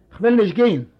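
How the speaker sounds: put-on old man's understated shout; mild shout. A narrator's reading. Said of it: "hat der Alter geschrien".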